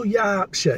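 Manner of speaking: "Yorkshire" with a drawn-out open "Yaark"; mimicked Yorkshire pronunciation. Partner mocks her saying it, broad open "Yorkshire". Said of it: "No, you go Yorkshire".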